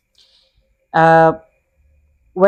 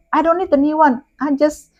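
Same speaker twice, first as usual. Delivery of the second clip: higher, mock-furious complaint; angry guest; 7 semitones higher than usual. Guest scolding the manager about the egg, angry. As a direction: imitate an irate guest, slowing on the egg. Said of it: "Udah marah sekali itu ya".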